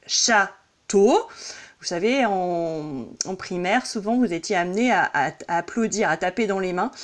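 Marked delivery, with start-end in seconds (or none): 0.1-1.2 château in two separate beats; split into syllables. Shown as a demonstration. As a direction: say château as "châ - teau", one syllable at a time. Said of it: "Si je dis par exemple".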